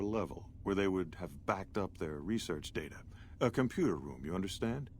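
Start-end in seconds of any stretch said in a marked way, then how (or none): 3.4-4.9 condescending. Acted. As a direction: explain it like to a child. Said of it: "talking to me like I'm stupid".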